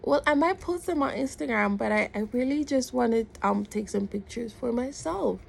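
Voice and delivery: high, appeasing little justification; placating explanation. Retold or imitated. Retold polite reply to the man.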